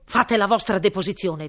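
loud pompous royal threat; threatening king. Acted. King's voice. (re minaccioso)

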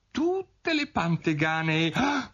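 drawn-out words climbing into a gasp; rising pitch, horrified gasp; trailing into dismay. A narrator's reading. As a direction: realise the blunder as you speak. Alice realises her blunder mid-sentence.

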